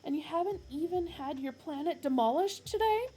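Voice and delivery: high, loud aggrieved rant; complaining Arthur. Acted. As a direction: complain like a wronged man. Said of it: "complained Arthur".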